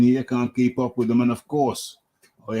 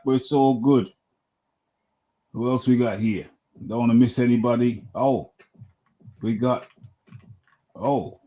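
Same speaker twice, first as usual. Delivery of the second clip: ordinary talk, nothing marked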